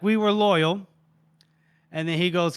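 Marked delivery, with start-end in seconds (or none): 0.0-0.9 higher-pitched acted retort; restrained mock scream. Mercenary protesting to the duke, restrained mock scream. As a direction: throw it back in a half-yell. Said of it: "then she screams back".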